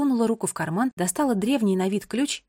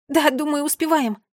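put-on higher girl's reply; 6 semitones higher, 4 dB louder than usual. A narrator's reading. Anxious girl checks watch, answers.

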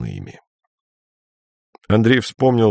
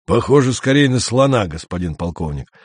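authoritative. Acted. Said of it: "авторитетно сказал Фогель".

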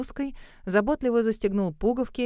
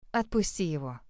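softer, lower gentle ask; gentle request; 5 semitones lower, 5 dB quieter than usual. A narrator's reading. She asks Grove softly to release Kyle. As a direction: ask him kindly to let go. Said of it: "попросила я".

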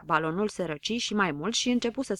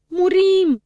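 very high, very loud panicked wail; panicked howl; 11 semitones higher, 11 dB louder than usual. A narrator's reading. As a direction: howl in terror that all is lost. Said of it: "se porni pe urlat".

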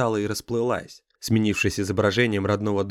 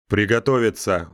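bellowed battle command; roaring grunting brute; 4 dB louder than usual. Acted. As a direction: roar the order. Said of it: "взревел Ран".

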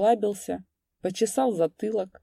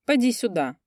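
shouted call; 6 semitones higher, 3 dB louder than usual. A narrator's reading. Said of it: "крикнул ямщик".

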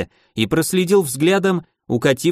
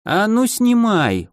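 slow, higher, sweetly menacing request; mock gentle; 8 semitones higher, slower than usual. A narrator's reading. Keush sweetly orders the merchant off the ring, slow. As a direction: coax him kindly while threatening. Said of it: "ласково попросил Кеуш".

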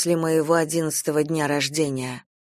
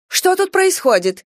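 alarmed shout; 12 semitones higher, 5 dB louder than usual. A narrator's reading. Stepmother bursts in alarmed.

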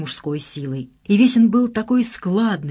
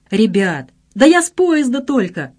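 raised, louder good-natured protest; amused protest; 5 semitones higher, 5 dB louder than usual. A narrator's reading. Son begging off to friends below, amused. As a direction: call it out as if laughing it off. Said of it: "рассмеялся Саша".

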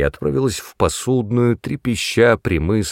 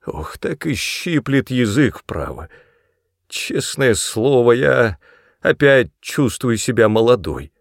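put-on higher, slower giddy old woman; tipsy blurting; 3 semitones higher than usual. A narrator's reading. Tipsy mother blurting to her son, giddy. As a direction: blurt out, warmed by whisky. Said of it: "затем вдруг выпалила".

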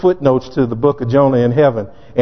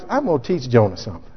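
God's aside; 4 semitones lower, 6 dB quieter, faster than usual. Acted. God voiced in retelling.

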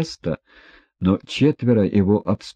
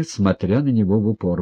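usual speaking voice

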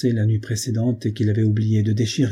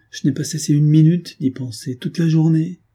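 higher, emphatic insistence; agitated protest; 6 semitones higher, 4 dB louder than usual. Acted. Young woman confessing her constant thought to Ethan, agitated protest. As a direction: protest with pent-up feeling, voice lifted. Acted anguished protest between lovers.

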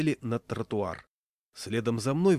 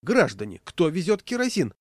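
loud call, leaping high; official calling out; 7 semitones higher, 5 dB louder than usual. A narrator's reading. Conductor hunting the kerosene carrier, calling out. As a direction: holler over the crowd. Conductor calls out over the crowd.

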